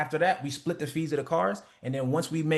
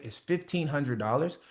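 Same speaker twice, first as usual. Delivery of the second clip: certain price. Shown as a demonstration. Coach showing students how to name the price, calm and certain. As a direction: state fifteen hundred like it's settled. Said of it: "say the price the same way you describe the product".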